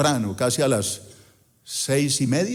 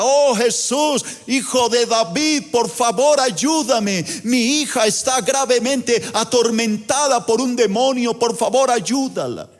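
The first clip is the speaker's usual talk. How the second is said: higher, imitated desperate plea; gentile woman calling out to Jesus, higher mock plea; mock crying out; 5 semitones higher than usual. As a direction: cry out to Jesus for her daughter. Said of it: "Esta mujer gentil grita".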